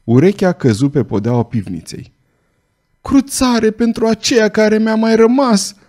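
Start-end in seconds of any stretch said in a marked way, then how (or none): 3.0-5.8 high, desperate plea out of fear and pain; terrified cry for mercy. A narrator's reading. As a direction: beg for your life, voice pitched up high. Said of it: "strigă Gilot, înnebunit de groază". (strigăt disperat de groază, mult mai sus)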